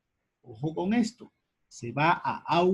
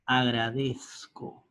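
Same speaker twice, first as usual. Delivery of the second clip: slow model word; 3 semitones lower, slower than usual. Shown as a demonstration. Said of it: "y digas agradezco".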